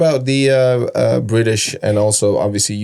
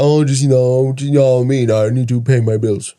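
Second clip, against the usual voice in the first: mock British accent; 3 semitones higher than usual. Host imitating how people talk in the UK, mock British accent. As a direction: put on a exaggerated British accent. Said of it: "that's how they talk here".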